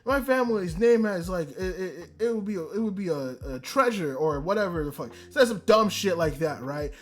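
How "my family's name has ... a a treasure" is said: mock snob. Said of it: "he wants to be a fuckhead and be like".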